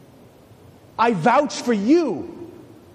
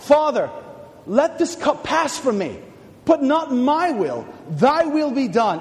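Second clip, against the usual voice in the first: crying out; 5 semitones higher than usual. Acted. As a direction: call out to the Father in agony. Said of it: "as he cried out".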